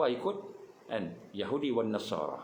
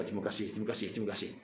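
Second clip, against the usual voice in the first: soft, low, modest thank-you; demure thanks; 3 semitones lower, 5 dB quieter, much faster than usual. Retold or imitated. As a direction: thank them softly like a humble star. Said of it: "Dia pun cakap". (ucap terima kasih dengan lembut dan rendah diri)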